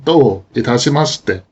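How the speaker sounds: "Do itashimashite" split into two phrases, each with its own accent; two separate phrases. Shown as a demonstration. Teacher showing the phrase split in two, deliberate. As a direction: set "Do" apart, then "itashimashite" as its own phrase. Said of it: "say this sentence slowly and deliberately as two phrases".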